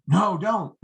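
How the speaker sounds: panicked rookie. Shown as a demonstration. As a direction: blurt it out anxiously. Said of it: "The rookie would say".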